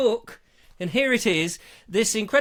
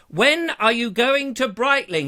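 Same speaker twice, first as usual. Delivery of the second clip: slow, higher, mildly demanding viewer; Rupert Lloyd Thomas; 4 semitones higher, 4 dB louder than usual. Acted. Viewer asks host about Brightling, mildly hammed-up demand. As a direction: lightly act out an insistent question. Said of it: "He says".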